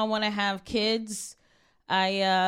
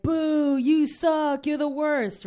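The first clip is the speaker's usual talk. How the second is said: raised, higher heckling at the movie screen; mild mock heckle from the theater seat; mock yell at the screen; 6 semitones higher, slower than usual. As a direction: boo the movie like an angry fan. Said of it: "stand up and yell at the screen".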